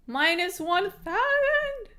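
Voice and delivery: high, slow amused question; laughing disbelief. Real, not acted. Streamer laughing at the minus one thousand odds.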